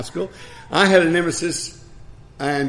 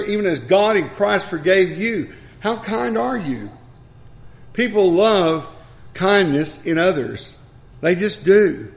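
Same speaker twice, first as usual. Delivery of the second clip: raised-pitch, emphatic sermon delivery; emphatic preaching; 4 semitones higher than usual. Real, not acted. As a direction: press each phrase home to the congregation.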